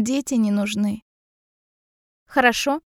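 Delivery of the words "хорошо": calm, slightly raised acceptance. A narrator's reading. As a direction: accept it calmly. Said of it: "говорю спокойно".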